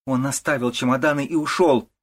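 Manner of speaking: wife shouts at the mother-in-law. A narrator's reading. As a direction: shout it at her. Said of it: "кричит ягнёнок".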